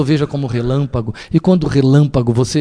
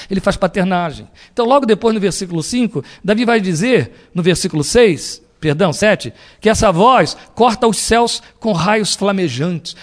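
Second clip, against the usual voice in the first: usual speaking voice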